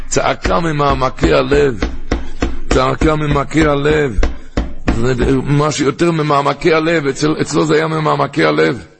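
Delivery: heartfelt cry. Shown as a demonstration. Stressing a heartfelt cry in prayer.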